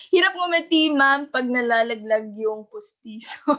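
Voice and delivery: can't get the words out without cracking up; laughing while reading. Real, not acted. Teacher reading a student's dentures joke to the class, laughing.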